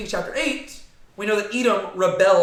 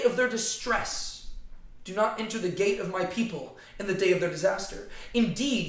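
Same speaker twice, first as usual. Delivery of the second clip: scripture reading; 3 semitones higher than usual. Acted. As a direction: read the verses like a proclamation. Reads the prophecy aloud.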